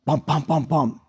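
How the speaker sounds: knock imitation. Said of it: "we get a knock on the door".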